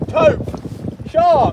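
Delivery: very high yelp of recognition; excited cry. Real, not acted. Angler crying out to the crew as the shark surfaces, excited. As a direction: call it out the moment you see it. Spotting the fish at the boat.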